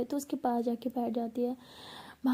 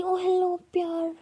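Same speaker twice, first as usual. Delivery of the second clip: defensive scoff; 6 semitones higher, 5 dB louder, slower than usual. Acted. Bhavna denies saying love.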